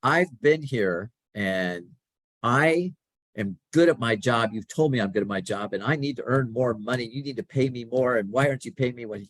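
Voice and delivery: younger self demanding a raise. Retold or imitated. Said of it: "went marching into her office and said".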